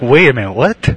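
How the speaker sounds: ordinary delivery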